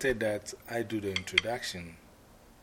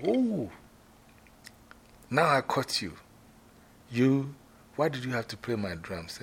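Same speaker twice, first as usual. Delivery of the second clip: accusing shout; 3 semitones higher than usual. Shown as a demonstration. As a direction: catch him in the act and scold. Drum owner catches the culprit.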